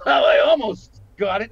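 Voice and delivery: a hint of pleading actor; mock whiny actor. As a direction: imitate a hopeful actor fishing for credit. Mocking a hopeful actor.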